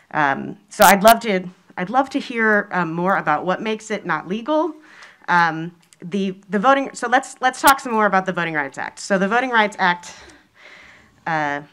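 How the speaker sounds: muffled through a mask; speaking behind a face mask. Real, not acted. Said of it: "pardon my mask wearing".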